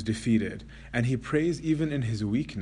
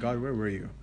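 quiet hurt question; 4 dB quieter than usual. Retold or imitated. Antony asks God in pain, a softer hurt question. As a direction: let the hurt through, not the anger. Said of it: "look at him with boldness and say".

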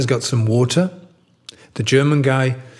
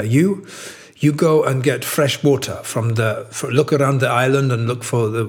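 lightly put-on German accent. German survivor assigning tasks in a joke, light German accent. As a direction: give orders with a hint of a German accent. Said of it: "that's my German accent".

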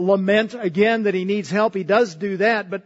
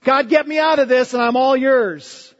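higher, louder mock plea of a desperate man; foxhole prayer; 5 semitones higher, 6 dB louder than usual. Preacher mimics a foxhole prayer, higher and louder. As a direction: imitate someone bargaining with God in a panic. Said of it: "the prayer from the foxhole".

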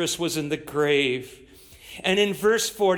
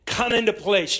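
barked military order, louder; sergeant's command; 4 dB louder than usual. Retold or imitated. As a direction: call the troops to fall in. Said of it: "they might command you".

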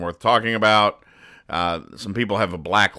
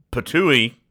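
mock cartoon spit, voiced as a word; spitting out; 5 semitones higher, 4 dB louder than usual. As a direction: spit it out like a comic bear. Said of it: "the bear spits something out and says".

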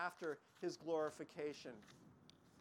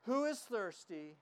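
loud voice to the crowd; 2 semitones higher than usual. Acted. Jesus calling out to the festival crowd, loud and inviting. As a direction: call out the invitation to everyone. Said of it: "said in a loud voice to the crowd".

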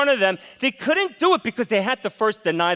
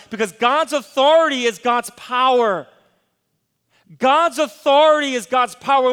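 louder, emphatic sermon drive; preaching at full force; 3 semitones higher, 4 dB louder than usual. Acted. Pastor urges the congregation, loud emphatic preaching. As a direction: hammer it home from the pulpit.

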